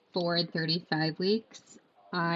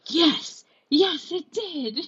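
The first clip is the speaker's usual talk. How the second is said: excited yes; 10 semitones higher, 6 dB louder, much slower than usual. Retold or imitated. Water breaks, excited confirmation.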